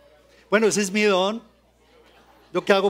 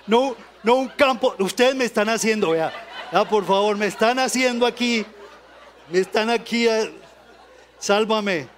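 real laughter breaking up each phrase; laughing. Real, not acted. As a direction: giggle helplessly while begging for rescue. Laughing at audience, asks rescue.

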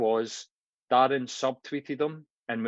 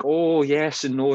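slower, higher and louder TV impression; drawn-out, raised imitation of a TV guest; Billy Connolly; 4 semitones higher, 5 dB louder, slower than usual. Scottish comic on American TV, lightly imitated. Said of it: "Billy Connolly going to America".

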